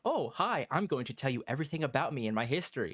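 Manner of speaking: lightly hammed-up, quick, guileless oversharing; complacent. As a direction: gush it out as a parody of a too-open character. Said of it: "a character gets super complacent".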